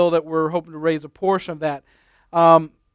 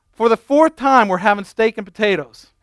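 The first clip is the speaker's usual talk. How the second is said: exasperated reply; 3 semitones higher than usual. Retold or imitated. Exasperated wife answers husband.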